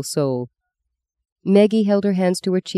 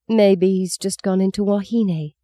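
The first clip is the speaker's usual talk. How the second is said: put-on little girl voice; 4 semitones higher than usual. Young girl Meggie voiced.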